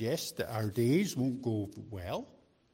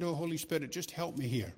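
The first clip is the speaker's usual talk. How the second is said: quiet prayer; 2 semitones higher than usual. Retold or imitated. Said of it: "only because I said".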